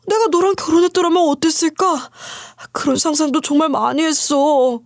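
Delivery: a hint of a self-pitying ex-husband; ex-husband's voice. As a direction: play the ex pouring out his troubles. Ex-husband confiding, voiced by narrator.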